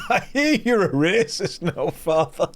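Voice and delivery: high-pitched Irish villager from a sitcom; Irish sitcom accent. Acted. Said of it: "Anyone that's not seen Father Ted".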